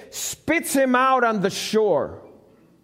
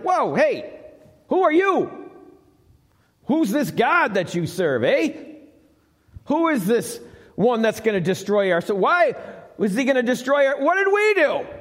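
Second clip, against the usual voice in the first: startled townsfolk; 3 semitones higher than usual. Acted. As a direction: fire the questions back in disbelief. Startled Ninevites questioning Jonah.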